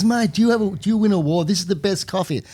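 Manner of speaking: enthusiastic praise. Retold or imitated. Venezuelan guest praising Australian coffee.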